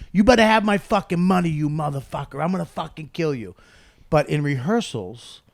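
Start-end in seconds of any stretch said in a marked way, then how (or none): 0.1-3.5 retold mobster threat, higher and harder at the start; tough mob audition. Lead mob actor auditioning with a threat, tough. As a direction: play a menacing mob heavy auditioning. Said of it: "when he auditioned, he auditioned like".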